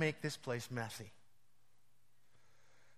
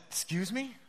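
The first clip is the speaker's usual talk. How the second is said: mock surprise; 8 semitones higher than usual. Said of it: "I said".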